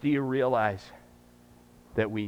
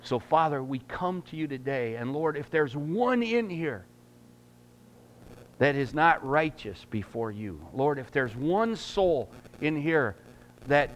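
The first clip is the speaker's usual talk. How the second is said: prayer. Acted. Starts the prayer.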